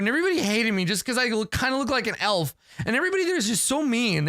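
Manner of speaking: high, fast, tearful rant; blubbering. Acted. Adventurer to her elephant, blubbering high and fast. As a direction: wail it out between sobs. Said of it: "start blubbering".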